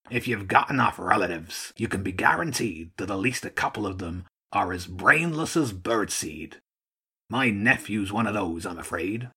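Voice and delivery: lightly voiced old gull; world-weary old Archduke. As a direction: confide like a resigned old commander.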